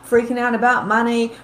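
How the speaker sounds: ordinary talk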